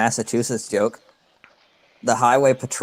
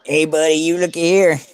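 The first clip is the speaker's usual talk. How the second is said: mock Virginia accent; 5 semitones higher than usual. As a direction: mimic a rural Virginia accent, pitched up. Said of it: "That's the one I know".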